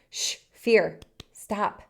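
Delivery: firm mock hushing; shushing fear. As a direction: cut it off with a shush and a firm stop. Shushing fear in acted quote.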